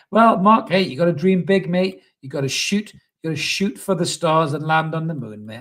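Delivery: cheeky motivational boost; hyped pep talk. Acted. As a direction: pump him up like a coach. Mock pep talk to viewer.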